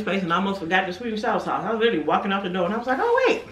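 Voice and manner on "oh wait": usual speaking voice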